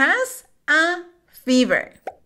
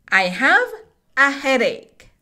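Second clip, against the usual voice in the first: "I have a headache." read smoothly in one breath. Shown as a demonstration. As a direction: run the words together without pausing. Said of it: "Vamos a decir esta oración de corrido".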